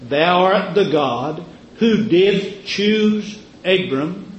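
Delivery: slow, measured recitation; solemn scripture reading. Acted. Preacher reads Nehemiah's prayer slowly to the church. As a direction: read it like a holy text. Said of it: "Nehemiah said this".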